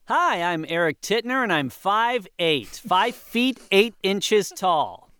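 bright, overeager audition slate, drawn out at the end; eager slate. Acted. Eager actor slating name and height for the casting camera, overeager. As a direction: introduce yourself like a hopeful actor.

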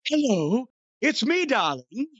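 breathy, lilting phone-sex voice; hammed-up breathy seductive impression; Twinkle Toes McFingerbang. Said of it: "breathy phone sex voice and the Canadian accent".

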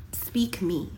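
breathy hushed whisper, pleading; whispered plea. Pretend. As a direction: whisper it like the gift begging to be spoken. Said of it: "It's saying".

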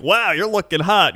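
flirty. Pretend. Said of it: "that lady'd probably be like".

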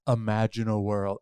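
loud, dramatic trailer announcer; movie trailer voice. Pretend. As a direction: boom it like an epic film trailer. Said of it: "like that famous movie trailer voice".

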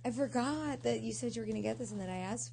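crying while talking; choked up, half crying; tearful whine. Real, not acted. Upset, crying.

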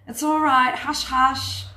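whispered shh, then a hint of a hushing mother; mock comforting hush; shushing a crying child. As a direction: soothe a child to stop her crying, lightly imitated. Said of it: "somewhere we've been told".

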